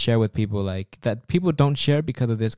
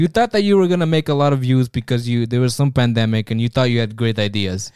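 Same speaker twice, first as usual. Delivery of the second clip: mocking recruiter; 2 semitones higher, 4 dB louder than usual. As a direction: tease the new recruit, amused. Recruiter mocks failed podcaster.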